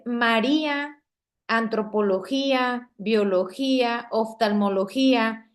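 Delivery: "biología" with the í held as its own syllable; teacher's examples like "antropología", leaning on í before a separate a; stressed hiatus. Shown as a demonstration. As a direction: stress the í in "María", apart from the a. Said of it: "la I se separa de la A".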